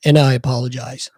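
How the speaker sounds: slightly subdued, halting mumbled apology; a touch of hangdog reluctance; retold sheepish apology. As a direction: imitate a humbled chief backing down. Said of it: "he's got his head down".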